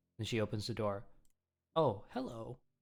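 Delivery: plain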